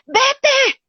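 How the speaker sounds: high, wailing sulky push-away; whiny self-pitying victim. Pretend. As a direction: shoo the helper off while wallowing. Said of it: "Y tú le dices".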